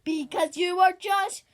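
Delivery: child playing a grumpy crocodile. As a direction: growl it out like a mean crocodile. Crocodile voiced in a quarrel.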